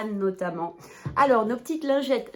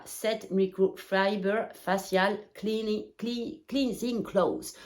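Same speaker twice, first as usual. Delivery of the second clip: French-accented English, slow and halting; imperfect English accent; slower than usual. Real, not acted. Vlogger reading the English label, imperfect French-accented English. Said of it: "mon accent anglais, vous le savez, c'est pas tout à fait ça".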